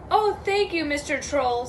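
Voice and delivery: lightly voiced grateful goat; relieved middle goat. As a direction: thank the troll in a lifted voice. Relieved goat thanks the troll.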